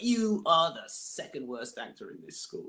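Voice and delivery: angry vice principal. Retold or imitated. Vice principal insulting his student in a pub, imitated anger. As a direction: hand down a damning verdict, mock-angry. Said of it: "he was so angry with me".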